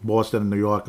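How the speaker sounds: light mock East Coast vowels; touch of Boston-New York accent. Shown as a demonstration. Podcaster naming the rival cities, East Coast accent. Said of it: "East Coast accent".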